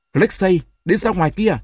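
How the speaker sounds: high-pitched, hoarse command; hoarse order. A narrator's reading. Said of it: "nói giọng khàn khàn". (ra lệnh giọng khàn, cao)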